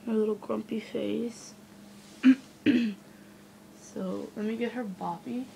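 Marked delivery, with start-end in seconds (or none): 1.6-3.3 loud stifled hiccup; suppressed hiccup. Real, not acted. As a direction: hiccup bursting out. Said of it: "Sorry, I have hiccups".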